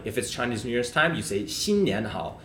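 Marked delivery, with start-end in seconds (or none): 1.5-2.4 新年好 spoken with first, second, third tones; practicing tones. Shown as a demonstration. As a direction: say 新年好 with each tone clear. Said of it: "First tone, second tone, third tone".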